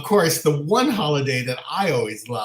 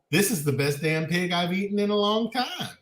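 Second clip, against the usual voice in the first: mock backwoods Southern accent, pitched up; put-on Southern accent; 4 semitones higher than usual. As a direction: imitate a Southern uncle praising his dinner. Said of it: "I don't know why I'm giving him an accent".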